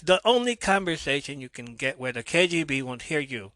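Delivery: clumsy mock Russian accent; botched Russian accent. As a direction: have a failed go at a Russian accent. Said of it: "fucked that one up".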